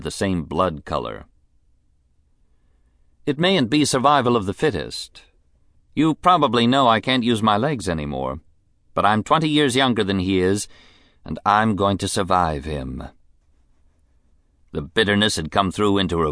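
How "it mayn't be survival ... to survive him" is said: high, bitter rich lady; bitter invalid wife. Acted. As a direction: bitterness through a society voice.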